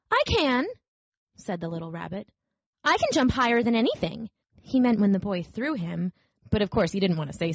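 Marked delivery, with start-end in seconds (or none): 0.1-4.3 higher, eager little rabbit; mildly defensive toy rabbit; insisting little rabbit. Acted. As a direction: insist proudly in a small voice.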